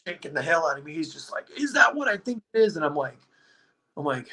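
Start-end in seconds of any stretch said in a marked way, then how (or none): 1.6-2.8 high, squeaky mock disbelief; mock astonished question. Retelling friend's reaction to the photo, mock astonishment. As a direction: imitate a flabbergasted friend, pitched way up. Acting out friend shaking him.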